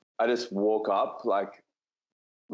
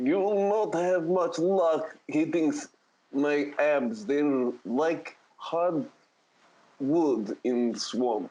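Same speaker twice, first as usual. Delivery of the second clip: slow boast; 5 semitones higher, much slower than usual. Acted. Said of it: "I'm gonna be like".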